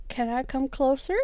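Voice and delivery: put-on light southern accent, rising question. Player as James asking to approach, slight southern accent. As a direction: ask gently with a hint of southern accent. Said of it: "why does he have a southern accent suddenly".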